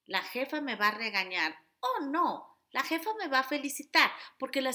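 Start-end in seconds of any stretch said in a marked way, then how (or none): 0.1-1.6 lightly acted worried self-talk; worried inner voice. Shown as a demonstration. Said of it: "hago el juego de voces". 1.8-4.1 higher, bright mock-optimistic reply; lightly hammed-up positive thinking; cheery positive voice. Shown as a demonstration. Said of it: "hago el juego de voces".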